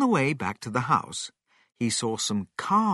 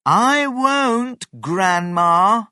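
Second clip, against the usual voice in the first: high, loud refusal called out to Grandma; defiant shout; 10 semitones higher, 8 dB louder, slower than usual. Acted. George answers Grandma back, loud and defiant.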